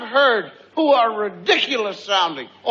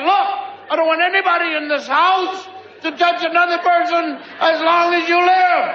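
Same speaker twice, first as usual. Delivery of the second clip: rising to a shout at the end; stern father shout; 4 semitones higher than usual. Retold or imitated. Parent laying down law.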